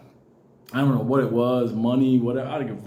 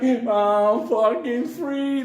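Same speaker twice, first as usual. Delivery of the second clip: free rooster; 5 semitones higher, much slower than usual. Retold or imitated. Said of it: "He's like".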